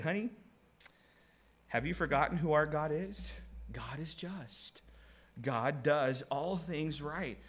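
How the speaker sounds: Job speaking to wife. Retold or imitated. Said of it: "Job said".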